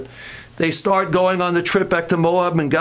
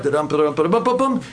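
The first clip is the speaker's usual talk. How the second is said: bouncy low da-dum trotting rhythm; sing-song ba-dum hoofbeats; imitated donkey gait; 5 semitones lower, faster than usual. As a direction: mimic a donkey plodding along. Mimicking donkey's jog along the road.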